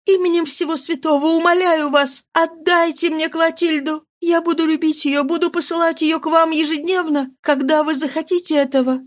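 plead, rising to a shout at the end; mother on her knees begging for her daughter; desperate pleading. Acted. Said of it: "упала к ногам".

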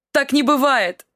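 high, loud cry of despair; wife shouting while pounding the table, high and loud. Acted. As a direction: scream it out. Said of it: "закричала вдруг Альбики".

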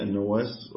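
النواس with an a after nun and doubled waw. Shown as a demonstration. Teacher showing the narrator's name, النواس with doubled waw. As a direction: say النواس as an-Nawwas, holding the double w. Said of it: "بفتح النون وتشديد الواو".

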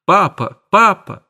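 high, rising cry of Papa; child crying out. A narrator's reading. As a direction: tug at father and call him. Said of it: "кричала".

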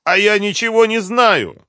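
very high, loud frantic denial; shouting. A narrator's reading. Captive blames his partner to avoid a beating, shouting. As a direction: cry out, shifting all the blame. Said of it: "крикнул Юрлов".

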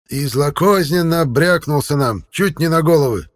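high, creaking elder complaining; old elder's creaky complaint. A narrator's reading. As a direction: grate it out like a well winch. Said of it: "проговорил он скрипучим, как колодезный ворот, голосом".

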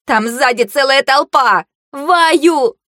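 high, alarmed battle call; urgent warning shout. A narrator's reading. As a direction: call out danger to your team.

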